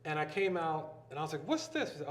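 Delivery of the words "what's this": high-pitched retold astonishment; amazed question. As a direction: act out stumbling on a big surprise. Retold discovery of film production.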